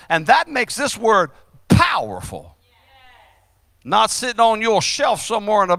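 animated sermon delivery, key words punched; insistent pulpit exhortation; emphatic preaching. Real, not acted. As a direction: drive the point into the congregation.

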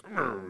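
soft, wordless grumble; imitated grumble. Retelling the commodore's reaction to the photo, imitated grumble. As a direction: quietly imitate a reluctant grunt. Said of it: "And he's like".

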